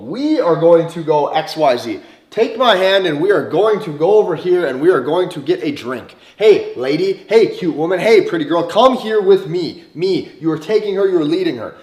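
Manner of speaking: confident leader inviting her along; leading tone. Shown as a demonstration. Coach shows leading a woman to drinks, firm and commanding. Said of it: "penetratively leading something".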